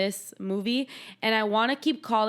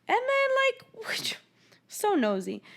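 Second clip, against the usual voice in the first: breathy whisper into a laugh; whispered aside; 12 semitones higher, slower than usual. Real, not acted. Gossiping to a friend, whispered and amused.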